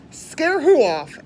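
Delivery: loud, slow puzzled question. Acted. Rabbit wondering who to scare, loud and baffled.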